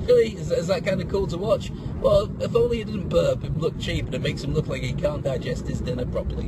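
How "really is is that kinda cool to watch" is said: surprised. Retold or imitated. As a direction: act amazed. Mock viewer's disbelief.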